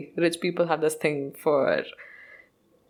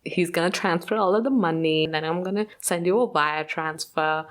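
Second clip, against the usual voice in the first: put-on German accent. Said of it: "that's her accent that I'm trying to, like, imitate".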